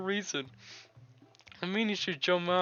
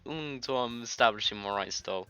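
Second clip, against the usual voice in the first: Yuri's shy voice; 2 semitones lower than usual. Acted. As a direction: speak gently like a timid bookworm. Yuri voiced in game.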